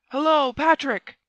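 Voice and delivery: high, loud, drawn-out hail; calling out. A narrator's reading. Buckingham summons Patrick for help, calling out loudly. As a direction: call a servant from another room, slowly. Duke calls his servant for help.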